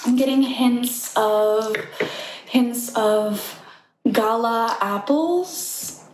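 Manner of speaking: slow, savoring mock sommelier; pretentious wine taster. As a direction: drawl out the tasting notes like a snob.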